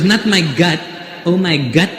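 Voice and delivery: put-on Filipino English correction; Filipino accent. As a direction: insist in a mock Filipino accent. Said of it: "She goes".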